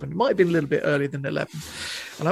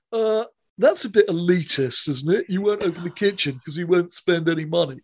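mock pretentious complaint. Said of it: "to my horror".

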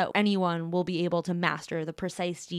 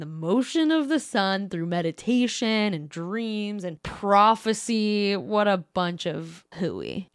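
mocking scoff; slower than usual. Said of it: "skinny ass man with a goatee who's like".

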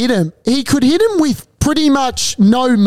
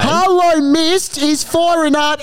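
race caller. Acted. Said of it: "if that call didn't impress you".

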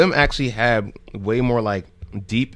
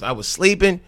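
startled awake; 9 semitones higher, 3 dB louder than usual. Retold or imitated. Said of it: "like, snap".

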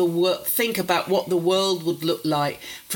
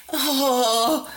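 pleading retort; 6 semitones higher, slower than usual. Retold or imitated. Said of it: "I sort of like".

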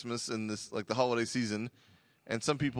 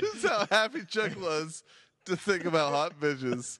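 laughing; 4 semitones higher than usual. Real, not acted. Teasing through laughter.

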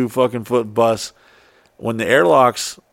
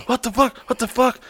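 higher, startled repeated cry; shocked disbelief; 12 semitones higher, faster than usual. Retold or imitated. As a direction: react as smoke starts pouring out. Shock as bus catches fire.

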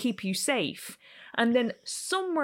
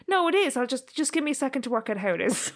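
smug inner critic; 4 semitones higher than usual. Retold or imitated. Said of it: "It went".

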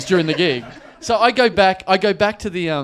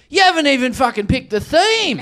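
high, outraged heckler's yell; retold scream; 7 semitones higher than usual. Woman in fancy dress berates the comic, mock screaming. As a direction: imitate a woman screaming a complaint. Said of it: "one woman screams at me".

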